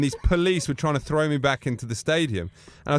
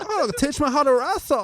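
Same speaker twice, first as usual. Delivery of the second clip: Bruno voice; 11 semitones higher than usual. Retold or imitated. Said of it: "I'm going".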